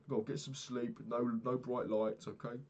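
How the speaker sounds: lightly voiced imagined doctor, slow on the middle; a hint of a patronising doctor; doctor's advice. Imagined doctor telling concussed him to rest, mild mock. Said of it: "probably just said the same shit".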